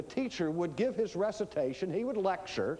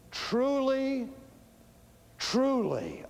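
higher, drawn-out proclamation; solemn preface; 9 semitones higher, 4 dB louder, much slower than usual. Retold or imitated. Rabbi flagging a key point to disciples, solemn proclamation. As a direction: call out each word, higher. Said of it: "preface his teaching by saying two words".

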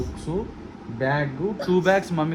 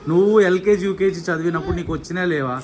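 loud, exasperated telling-off; loud scolding; 6 dB louder than usual. Real, not acted. Father loudly scolds crying son about school clothes.

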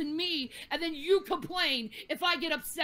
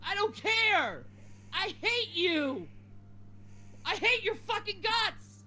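angry outburst; 2 semitones higher than usual. Real, not acted. Streamer telling bullies she hates them.

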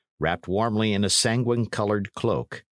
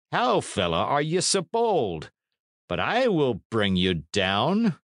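higher-pitched lordly accusation; stern accusing knight; 5 semitones higher than usual. Acted. Knight accusing the old man of treason, stern. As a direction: pile up the charges as a lord.

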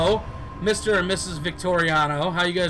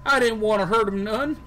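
higher, pleading simpleton voice; a hint of a guilty Lennie; lightly voiced Lennie; 5 semitones higher than usual. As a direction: beg Paul like Lennie. Of Mice and Men Lennie voice.

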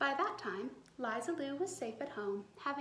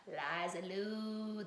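moaned; 4 semitones lower, much slower than usual. A narrator's reading. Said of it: "that swamp haunt moaned".

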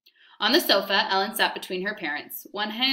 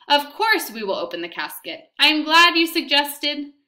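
much higher, louder, overly bright play-along; feigned eagerness; 6 semitones higher, 6 dB louder than usual. Acted. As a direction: gush to scare him off the coffin. Mama feigns eager agreement to officer.

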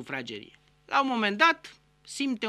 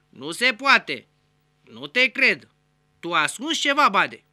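suspicious customs officer; 5 dB louder than usual. Acted. Customs officer accuses Badea.

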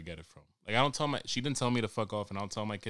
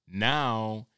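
usual speaking voice

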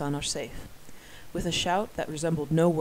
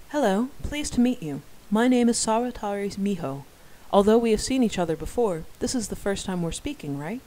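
put-on girlish voice; 4 semitones higher, 5 dB louder than usual. Young woman introducing herself shyly.

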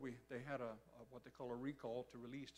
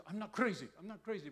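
imitated protest; 5 semitones higher, 8 dB louder than usual. Friend protests he is sane.

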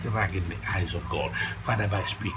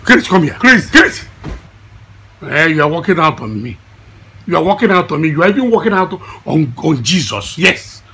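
angry shouting; 2 semitones higher, 8 dB louder than usual. Acted. Calling Chris over to scold, angry shouting. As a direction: call out sharply, then scold at full voice.

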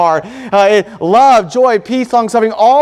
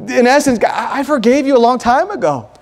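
mildly emotional, higher-pitched plea; halting, lightly acted tearful forgiveness; retold tearful plea; 3 semitones higher than usual. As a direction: imitate a brother forgiving through tears, understated. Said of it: "he, he wept".

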